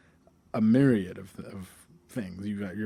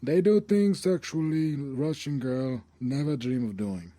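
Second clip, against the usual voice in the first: Nelson Mandela impression; 3 semitones higher than usual. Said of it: "as read by Nelson Mandela".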